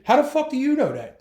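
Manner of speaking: high, loud confrontational question; a loud demand for proof from the cop; angry challenge. Retold or imitated. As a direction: demand he back it up. Arguing with the sergeant.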